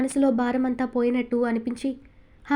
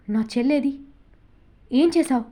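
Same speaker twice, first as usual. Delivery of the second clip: tearful demand. A narrator's reading. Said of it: "కన్నీళ్లతో సూటిగా అడిగింది".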